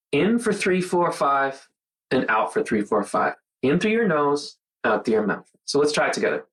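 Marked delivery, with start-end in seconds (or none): 0.1-1.7 paced count, lifting higher on in; counting the in-breath. Shown as a demonstration. Showing viewers the breathing count, counting the in-breath higher. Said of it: "all it is, is". 2.1-3.3 paced count, falling lower on out; counting the out-breath. Shown as a demonstration. Showing viewers the breathing count, counting the out-breath lower. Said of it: "all it is, is".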